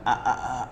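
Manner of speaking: repeated stuck aa sound; stuttered aa. Shown as a demonstration. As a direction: show the stammer on aa. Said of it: "ऐसा कुछ निकलता है ना". (अटकती हुई आ आ आवाज़)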